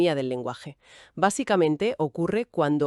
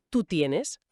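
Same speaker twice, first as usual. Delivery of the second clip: tú tienes, slow, with tienes stressed on TIE; stress in the middle. Shown as a demonstration. Teacher contrasting tuteo with voseo, slow and stressed in the middle. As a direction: lean on the first syllable of tienes. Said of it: "con el golpe en el medio".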